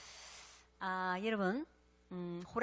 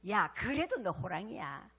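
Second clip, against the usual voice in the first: slow, steady "그래도" falling, a calm mother; lightly voiced mother soothing her cub, "그래도" leaning down; understated mother's reassurance, "그래도" falling gently; mother reassuring calmly. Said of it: "엄마한테 물어봤어".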